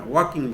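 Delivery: ওয়াকিং, the L in walk left silent; teacher models ওয়াকিং with the L dropped, wah-king. Shown as a demonstration. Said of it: "এল এর উচ্চারণটা কিন্তু হবে না".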